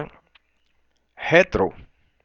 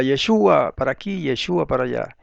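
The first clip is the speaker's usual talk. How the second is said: Yeshua stressed on SHU; everyone's pronunciation. Retold or imitated. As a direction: say Yeshua with the accent on the U. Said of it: "todo el mundo lo llamaba".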